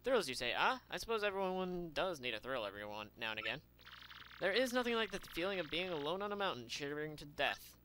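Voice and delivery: put-on lightly accented theatrical merchant; vain trader. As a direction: savor every dramatic word like a vain showman. Voices Flavio the trader.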